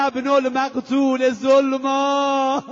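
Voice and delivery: slow, loud lamenting cry; anguished proclamation. Retold or imitated. Imam Sajjad proclaims his murdered father, slow lament. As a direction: cry out his grief to the crowd. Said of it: "فریاد زد".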